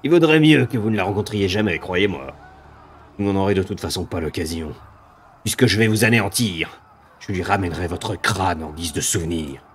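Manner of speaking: scornful monster voice; contemptuous demon. Acted. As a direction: belittle the fools.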